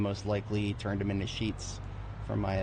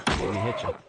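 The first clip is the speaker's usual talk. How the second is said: taunting shout; 6 dB louder than usual. Real, not acted. Fighting zombie, taunting.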